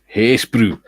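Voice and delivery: hammed-up, drawn-out Scottish greeting; badly faked Scottish accent. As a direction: read it out in a poor mock Scottish accent. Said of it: "really bad Scottish accent".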